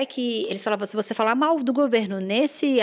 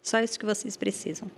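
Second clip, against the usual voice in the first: motivational quote. Shown as a demonstration. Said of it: "essa vai a frase".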